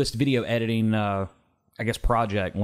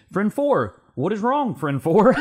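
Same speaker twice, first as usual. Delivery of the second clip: higher worried friend voice; concerned friend; 8 semitones higher, 4 dB louder than usual. Acted. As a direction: ask it with worry. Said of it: "Friend two".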